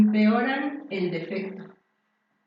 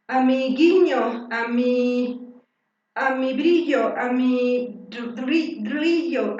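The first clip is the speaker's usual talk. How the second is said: slow, struggling search for the word; straining to get the word out, slowly; slow halting tries at the word; effortful patient attempts; 6 dB louder, slower than usual. Shown as a demonstration. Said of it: "se nota el esfuerzo".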